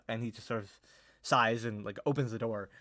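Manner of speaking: ordinary talk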